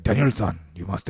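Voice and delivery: put-on Japanese accent; low mock-Japanese accented voice; Mister Miyagi. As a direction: do the movie mentor's Japanese accent. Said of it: "he had the accent too".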